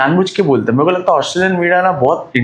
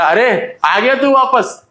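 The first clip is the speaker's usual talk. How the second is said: mocking taunt; 6 semitones higher, much slower than usual. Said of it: "तो दो लोग ने बोला".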